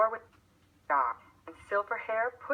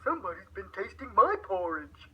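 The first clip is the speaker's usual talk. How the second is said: lightly voiced middle-sized bear; a hint of a mother bear, a touch put out; gently voiced middle bear; 3 semitones higher than usual. A narrator's reading. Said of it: "the middle-sized bear looked into his bowl and said".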